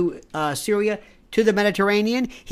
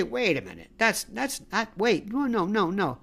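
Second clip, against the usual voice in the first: mock dawning doubt; 9 dB quieter than usual. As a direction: murmur it like someone finally catching on. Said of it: "ever suspect or ever say".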